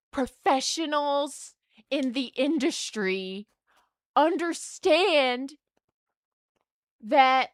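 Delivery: slow, pointed exasperation; exasperated. Retold or imitated. Patient lecturing therapists slowly, exasperated. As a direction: spell it out slowly to the professionals. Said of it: "I was just like".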